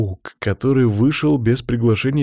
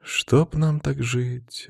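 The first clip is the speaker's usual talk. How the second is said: slow wistful sigh; 4 semitones higher, much slower than usual. Acted. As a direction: breathe it out longingly. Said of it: "вздохнула Анна".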